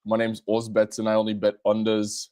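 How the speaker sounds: mock Australian accent; hammed-up Australian; Aussie accent. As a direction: put on a broad Aussie accent. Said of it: "I'll do an Aussie accent".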